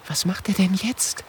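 put-on high, soft frightened girl; trembling whisper. Mathilda fragt die anderen ängstlich. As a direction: whisper nervously. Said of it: "flüstert Mathilda mit zitternder Stimme".

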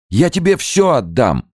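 very high, desperate plea; begging. A narrator's reading. Gao begs Chumbok, high desperate plea. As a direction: beg for your life, voice up high. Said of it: "умолял Гао".

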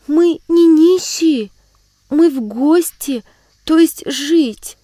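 put-on high, slow, loud little-girl voice, hesitant; embarrassed girl. Sibirochka tells the frightened aunt they came to live, embarrassed. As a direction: speak up shyly as a small girl. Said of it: "смущённо проронила".

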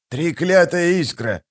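slow, drawn-out angry character voice; hissed curse. A narrator's reading. Shtyr cursing a spark, hissing. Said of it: "прошипел он".

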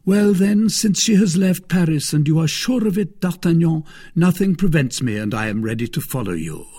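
keen and hurried; ready to go at once; eager. Acted. Aramis eager to leave.

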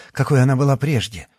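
usual speaking voice

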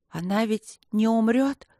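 тихая мольба в голосе; просить, почти умоляя; с мольбой. Acted. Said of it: "слышал мольбу в собственном голосе". (мальчик умоляет о подруге, слегка умоляюще)

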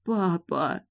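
whispered. A narrator's reading. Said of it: "прошептала я и заплакала".

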